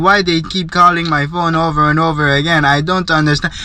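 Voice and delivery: mock African accent, grumbling to himself; imitated African accent. Man grumbling alone in the stall, imitated African accent. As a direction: keep his African accent while he complains. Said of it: "the African, uh, accent and everything".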